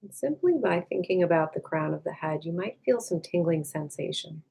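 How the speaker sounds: calm, unhurried meditation voice with long pauses; guided meditation. Acted. Meditation teacher leading listeners to release tension, calm and unhurried. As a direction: gently guide them inward, leaving space after each phrase.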